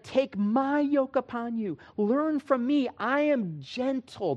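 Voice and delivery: high, drawn-out, tender quoting voice; gentle Jesus quote. Acted. Preacher quoting Jesus's invitation to the congregation, high and gentle. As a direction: lift the voice high and stretch it gently. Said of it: "He said".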